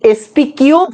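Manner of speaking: "এসপি কিউব" said slowly, exponent read as "cube"; reading not to use. Shown as a demonstration. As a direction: hold up "কিউব" as the reading to avoid. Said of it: "বলবো না". ("এসপি কিউব", ধীরে বলা ভুল পড়ার উদাহরণ)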